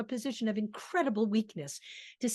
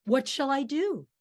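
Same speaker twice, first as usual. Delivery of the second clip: pleading; 4 semitones higher, 4 dB louder than usual. Acted. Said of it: "just him rabbiting on".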